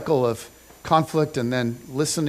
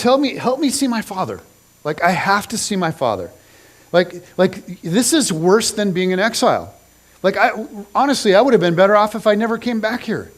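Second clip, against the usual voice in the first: raised, urgent plea to be let home; pleading; 3 semitones higher, 4 dB louder than usual. Retold or imitated. Exiled son begging Joab to let him see the king, desperate plea. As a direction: beg to see your father, voice lifted. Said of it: "he's just pleading".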